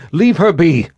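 put-on high, loud girl's cry; young girl defiant. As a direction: stand up for her, high and loud. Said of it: "Gillian stepped between them".

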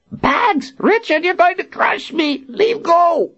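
put-on high, excitable old wizard; cackly old man, delighted. Zed crushed in a hug.

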